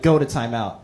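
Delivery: a hint of a calm white parent; imitating parents. White parents sending kid to timeout, low and stern. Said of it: "Be like".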